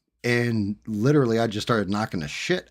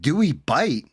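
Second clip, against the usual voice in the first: higher, louder mocking echo of his question; incredulous echo; 6 semitones higher, 5 dB louder than usual. Repeating the guy's question back to him, incredulous. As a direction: throw his words back at him in disbelief. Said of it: "I said".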